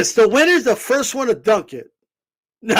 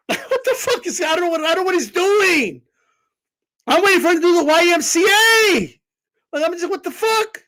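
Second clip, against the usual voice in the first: laughing disbelief; 8 semitones higher than usual. Real, not acted.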